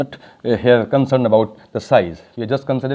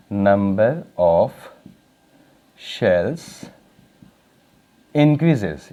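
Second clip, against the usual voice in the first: word by word with long gaps; spacing out each word for the notebook; slow dictation; 2 semitones lower, much slower than usual. Shown as a demonstration. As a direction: dictate each word so students can write it. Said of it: "हम short में लिखें".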